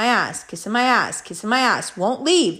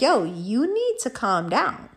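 retold warning; 3 dB quieter, slower than usual. Retold warning to slamming man.

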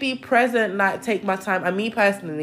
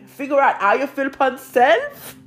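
high, loud Jamaican lilt; Jamaican accent; 8 semitones higher, 5 dB louder than usual. Real, not acted. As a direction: slip into a lively Jamaican accent with laughter. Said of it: "where this Jamaican accent is coming from".

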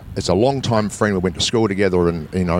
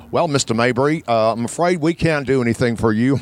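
bad Washington DC accent; 2 semitones higher than usual. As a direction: do a bad Washington DC American embassy official. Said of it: "bit of a bad, uh, Washington D C accent".

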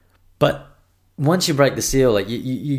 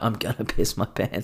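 laughing through it; 4 dB quieter than usual. Retold or imitated. Retelling desperate need to pee.

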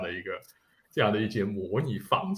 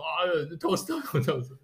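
slow repeated ordering; 6 semitones higher, much slower than usual. Retold or imitated. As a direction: repeat it slowly, higher. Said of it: "然后他说".

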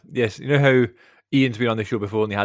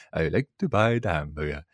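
low, soft Steve Martin-style mock French accent; 6 semitones lower, 5 dB quieter than usual. Quoting Pink Panther to defend a guilty pleasure, mock French accent. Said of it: "I just did the whole".

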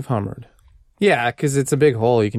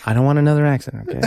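scolding rant; much faster than usual. Pretend. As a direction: rattle off a scolding. Fast scolding.

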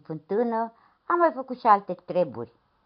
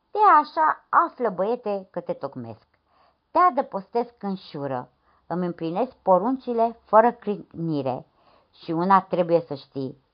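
stern priest. Acted. Priest lays down his rules.

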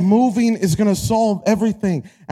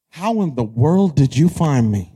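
mock astonishment; 8 semitones lower than usual. Voicing the astonished hiding daughter.

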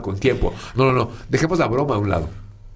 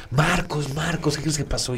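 lightly voiced worried housekeeper; a touch of an anxious older woman; worried lady; 5 semitones higher, 4 dB quieter than usual. Housekeeper tells Marcos the news, mildly worried. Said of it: "bien preocupada".

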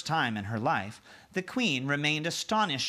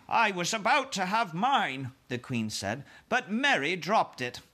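queen voice; 6 semitones higher than usual. Acted.

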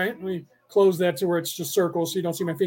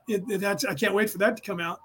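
normal talking voice

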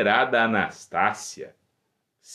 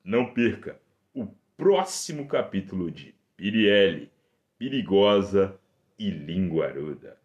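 booming radio serial promo; old radio serial announcer; 4 dB louder than usual. Acted. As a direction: announce the next episode grandly.

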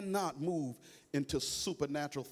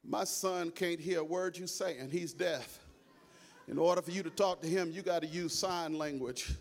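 calm father; 4 dB quieter than usual. Acted. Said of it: "the father of the little frog walks up and says".

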